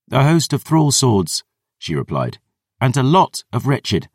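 a hint of a stubborn girl; girl reporting the enemy, lightly voiced; girl's voice. Girl Dior answers.

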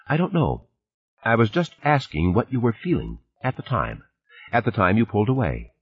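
a hint of a woman's voice, backing off; the speaker, probing. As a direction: probe carefully as a friend.

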